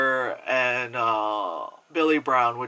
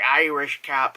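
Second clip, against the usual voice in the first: Irish cop voice; 5 dB louder, slower than usual. Pretend. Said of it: "that's an Irish cop voice".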